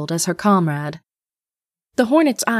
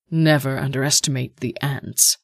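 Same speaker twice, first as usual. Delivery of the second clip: cold rasping evil emperor; 4 semitones lower than usual. Acted. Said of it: "the Emperor said".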